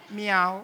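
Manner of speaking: little imitated meow; cat meow. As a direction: mew like a tame cat. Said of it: "sono andati".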